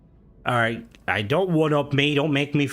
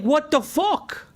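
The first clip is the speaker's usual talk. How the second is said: high-pitched, drawn-out bafflement; acted-out incredulous outcry; baffled reaction; slower than usual. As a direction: stretch it out in high, exaggerated disbelief. Acts out baffled reaction to comment.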